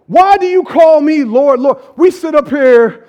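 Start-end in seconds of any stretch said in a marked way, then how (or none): 0.1-1.8 voicing Jesus again. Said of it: "think about this".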